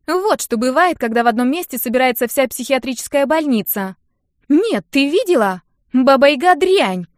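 put-on loud, high, furious girlish rant; teenage friend venting after a zoo brawl, loud and high; Нинка ranting. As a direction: blow off steam at full volume, outraged. Нинка rants about the fight.

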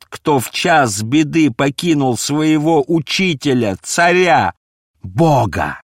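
high, loud, slow despairing outcry; anguished lament. A narrator's reading. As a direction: wail your betrayal through tears. Peter's tearful confession. (громкое отчаянное рыдание в голосе)

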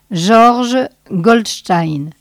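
slow, lightly broken voice; cracked voice. Acted. Small man introduces himself to the sage, cracked voice. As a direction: give the name slowly, voice cracked. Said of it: "parlait d'une voix cassée".

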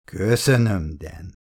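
lightly mimicking her sugary thanks; mocking imitation. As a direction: parrot her innocence back to tease. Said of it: "utánozta a férfi".

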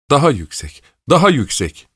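high demand, climbing on the repeat; impatient shout. A narrator's reading. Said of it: "diye bağırdı". (sabırsızca bağırma)

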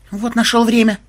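high-pitched indignant protest; acted indignation, pitched well up. A narrator's reading. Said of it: "возмутилась Мелисса".

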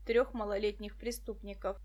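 usual speaking voice

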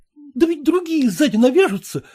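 ordinary delivery

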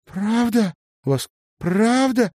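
high, loud, amazed questions; excited cry. A narrator's reading. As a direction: cry out in joyful disbelief. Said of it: "вскрикнула Марина". (вскрикнуть высоко и громко)

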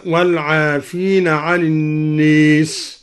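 الناس with long a tilted toward e; imala. Shown as a demonstration. Teacher gives another example of imala on الناس, slow recitation. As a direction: draw out الناس as "an-nees", slowly. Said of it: "وكذا قوله تعالى".

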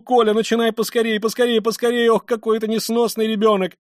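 high, loud, agitated nagging; frantic scolding. A narrator's reading. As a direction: scold them in mounting exasperation. Distraught mother scolds her children. (раздражённо, громко бранить детей)

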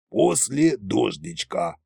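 slow, dry brush-off; snorting dismissal. A narrator's reading. Tsar refusing grandpa his bonus, snorting. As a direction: drag it out scornfully. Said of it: "снова фыркнул Кощей".

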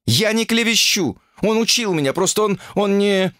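high-pitched denial, faltering at the end; flustered protest. Acted. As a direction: protest the accusation, then falter. Accused woman protests. (сбивчивый высокий протест)

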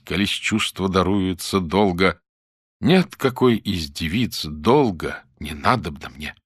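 offended recitation. Acted. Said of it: "оскорблённо продекламировал".

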